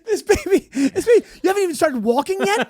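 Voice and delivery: put-on high, teasing baby-talk voice. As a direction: coo at the baby with a laugh.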